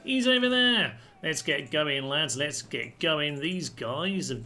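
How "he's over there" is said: high, loud battlefield call. Pretend. Gamer directing troops to the enemy general, calling out. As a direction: shout it out to point the troops at their target.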